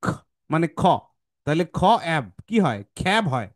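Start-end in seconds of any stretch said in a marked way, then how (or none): 0.0-0.0 খ as an aspirated k; letter sound. Shown as a demonstration. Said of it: "সি এর sound কি?". 1.8-3.2 খ, then অ্যাব, blended into খ্যাব; খ্যাব built from its two parts; phonics blending. Shown as a demonstration. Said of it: "এটা হচ্ছে খ্যাব".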